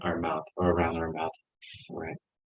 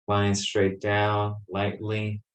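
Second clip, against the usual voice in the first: slow and gentle; much slower than usual. Shown as a demonstration. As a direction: draw each word out gently. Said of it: "just drawing".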